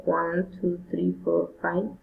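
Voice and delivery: each count on its own tune; list intonation. Shown as a demonstration. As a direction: count them off one by one. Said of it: "Enumerating, raising intonation".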